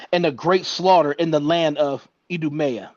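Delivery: measured, elevated reading voice; scripture reading. Acted. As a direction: read it out like scripture before a congregation. Reads scripture aloud.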